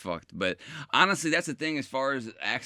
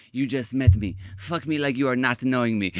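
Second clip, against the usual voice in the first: mock Mexican accent; 4 dB louder than usual. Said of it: "in her accent".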